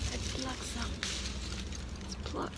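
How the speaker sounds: whispering. Real, not acted. Plucking flowers, voice drops away.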